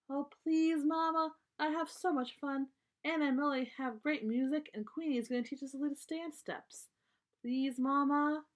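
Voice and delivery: pleading. Acted. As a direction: wheedle Mama into saying yes.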